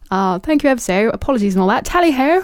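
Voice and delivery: hammed-up British toff, lifting at the end; mock stereotype of an English lord; Lord March. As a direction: play a lordly gent, finishing high. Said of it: "I bet he would say".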